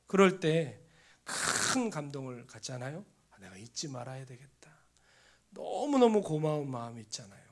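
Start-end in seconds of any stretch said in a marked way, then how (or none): 3.3-4.8 softer, whispered private promise; whispered vow. Retold or imitated. Preacher whispering a grateful inner vow.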